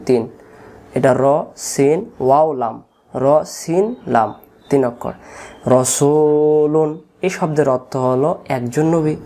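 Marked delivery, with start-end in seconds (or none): 5.7-6.9 রসুলুন with "su" held long; drawn-out, recited রসুলুন; long middle vowel. Shown as a demonstration. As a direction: stretch "su" in রসুলুন, then close on "lun". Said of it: "একটা অক্ষর কম থাকার কারণ".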